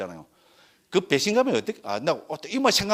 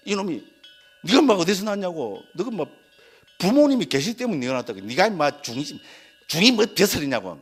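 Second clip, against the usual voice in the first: mildly heated imitation of a monk's telling-off; scolding senior monk. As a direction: retell an elder monk's scolding, a little raised in pitch. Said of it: "막 스님이 막 욕을 해". (노스님이 꾸짖는 말투를 가볍게 흉내)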